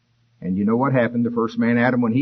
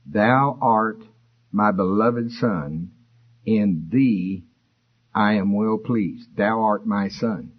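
slow, measured divine pronouncement; lightly voiced voice from heaven, pausing between phrases; slower than usual. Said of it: "a voice came from heaven which said".

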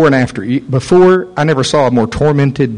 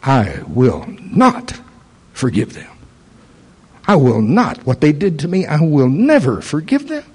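woman refusing to forgive her abusers, firm and defiant; defiant refusal. Retold or imitated. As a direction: dig in and refuse, each word set hard. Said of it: "with fire in her eye".

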